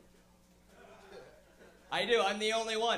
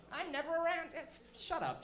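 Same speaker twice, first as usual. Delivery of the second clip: mock Rob Ford; 7 semitones higher, 5 dB quieter than usual.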